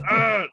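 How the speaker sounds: short frustrated growling ugh. Acted. First mate growling at the priest in frustration, exasperated growl. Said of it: "he growls in frustration".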